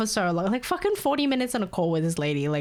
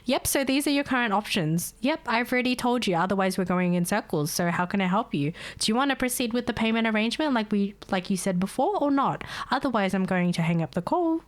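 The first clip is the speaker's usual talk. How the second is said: calm agent voice. Retold or imitated. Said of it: "I'm just like".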